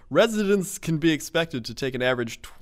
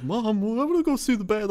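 much higher, childlike mock voice; kid's voice; 11 semitones higher, 3 dB louder than usual. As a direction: chirp it like an eager little boy. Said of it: "He's just like".

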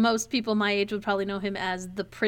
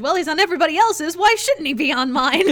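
quick, loud, higher butler retort; Wadsworth voice; 6 semitones higher, 6 dB louder, faster than usual. Retold or imitated. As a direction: snap it back like the butler. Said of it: "it's a classic Wadsworth delivery".

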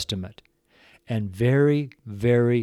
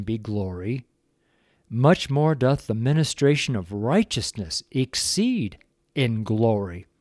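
slow, solemn Bible reading; scripture reading; 2 semitones higher than usual. Acted. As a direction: read the verses slowly, weighty. Reads scripture aloud, slow.

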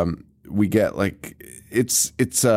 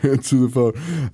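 lightly mocked demon command; a hint of demonic summons; 2 semitones higher than usual. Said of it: "talking in a demon voice".

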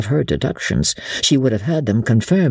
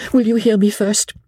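steady, unbending, a higher lady's voice; calm and resolved, she will not be refused; quiet firm resolution; 9 semitones higher than usual. A narrator's reading. Lady Blakeney laying out the plot to Sir Andrew, firm and steady. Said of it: "She had spoken quietly and with firm, unbending resolution".

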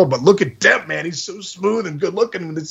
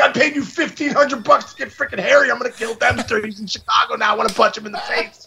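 mock rage; 5 semitones higher than usual. Raging at Dempster, retold.

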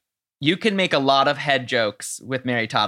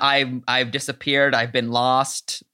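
slow lost murmur; 3 semitones lower, slower than usual. Retold or imitated. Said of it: "make fun of the".

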